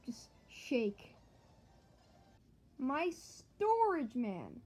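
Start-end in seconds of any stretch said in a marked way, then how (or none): 2.8-4.6 mock despair, stretched long; anguished wail. Real, not acted. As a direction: wail it out in dismay. Losing storage in game.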